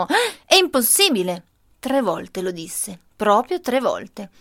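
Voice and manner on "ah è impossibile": mother's shocked exclamation, pitched up; exclaiming. Retold or imitated. Mother exclaims at grandpa's wine in the zabaione, shocked. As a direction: cry out in disbelief. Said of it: "lei esclamò".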